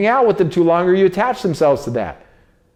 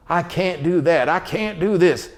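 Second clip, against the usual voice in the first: slow, a bit softer, giving up; defeated complaining; 4 dB quieter than usual. Shown as a demonstration. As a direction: sound like you've already quit. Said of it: "instead of saying".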